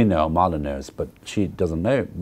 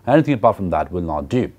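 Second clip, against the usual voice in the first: ordinary delivery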